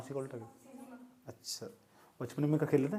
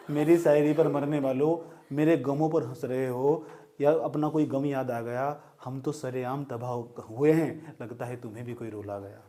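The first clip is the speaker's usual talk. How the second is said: slow, drawn-out shayari delivery; poetry recital; 3 dB louder than usual. Acted. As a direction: recite each line like a mushaira couplet. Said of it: "शायरी सुनाऊँ आज फिर?". (धीमे अंदाज़ में शायरी)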